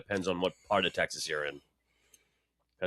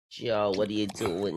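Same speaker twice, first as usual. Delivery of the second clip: put-on Boston accent. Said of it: "all the women don't talk like this".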